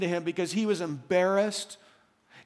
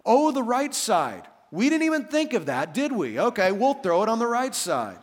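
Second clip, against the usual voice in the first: sarcastic fishermen; 3 semitones higher than usual. Retold or imitated. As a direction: roll your eyes at the obvious advice. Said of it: "you can almost hear the sarcasm".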